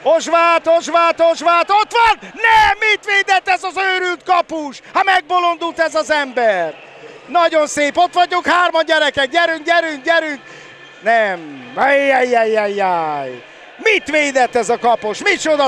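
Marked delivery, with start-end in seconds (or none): 0.0-10.4 excited sports commentary. Real, not acted. Tense attack, urging on. 11.0-13.4 slow, lower anguished ajjaj; dismayed groan. Real, not acted. Disappointment at the save.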